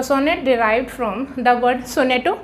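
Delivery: half-speed, word by word; slow teacher dictation of the key answer. Shown as a demonstration. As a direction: spell it out slowly for notes. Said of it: "teacher dictates the key fact".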